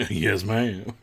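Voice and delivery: light imitation of a Southern droid; Southern drawl. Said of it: "with the southern drawl".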